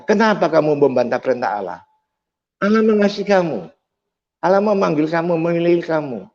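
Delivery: mild mock preacherly telling-off; imitated scolding shout. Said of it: "berteriak, memarahi saya".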